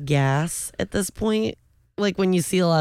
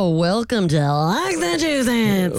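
radio DJ voice; 4 semitones higher, 4 dB louder than usual. Pretend. Radio DJ style greeting.

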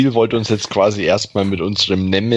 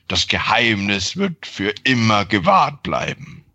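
gurgling grave voice; 2 semitones lower than usual. Acted. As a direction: growl it like a thing from a grave. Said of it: "wahrscheinlich eher gurgelnder Grabesstimme".

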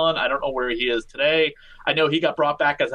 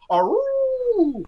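high wolf howl. Retold or imitated. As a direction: howl like a werewolf. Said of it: "come back out with the whole".

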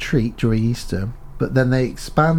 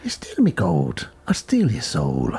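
low, slow leprechaun threat; menacing leprechaun; 8 semitones lower than usual. Acted. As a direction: growl it as an evil leprechaun. Leprechaun villain line.

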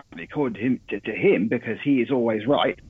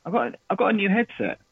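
phone line sound; 6 semitones higher than usual. Real, not acted. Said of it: "I don't think you're talking to us through it".

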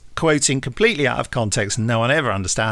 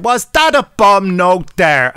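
slow, higher, louder mock Irish "Was that a bomb note there?"; stage-Irish accent, loud and slow; rubbish Irish accent; 6 semitones higher, 7 dB louder, slower than usual. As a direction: drag it out in a hammed-up Irish accent. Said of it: "quoting it with this offensive, rubbish Irish accent".

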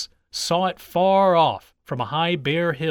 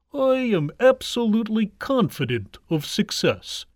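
higher, declaiming tortoise voice; confident tortoise; 6 semitones higher than usual. A narrator's reading. Tortoise speaks of approaching victory, confident. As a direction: announce it with full assurance. Tortoise boasts before the race.

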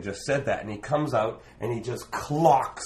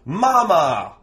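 a big loud hammed-up shout of Mama; loud call; 8 semitones higher, 11 dB louder than usual. Street performer hails an old lady in the crowd, loud playful call. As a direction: call out to her like a long-lost son.

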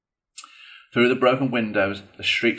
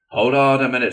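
restraining Badger; 3 semitones higher, 8 dB louder, faster than usual. A narrator's reading. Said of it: "restraining him".

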